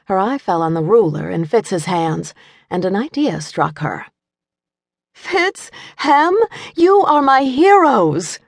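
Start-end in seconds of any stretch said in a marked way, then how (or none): 5.1-8.4 high, loud delighted exclamation; mother praising her sons, thrilled; excited cry. A narrator's reading. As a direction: burst out with a sudden idea. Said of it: "she cried".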